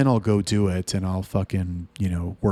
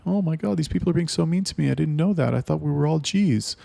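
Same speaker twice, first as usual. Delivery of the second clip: much higher, fast, hurt mocking voice; whiny mock newbie; 7 semitones higher than usual. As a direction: parody a crybaby newbie.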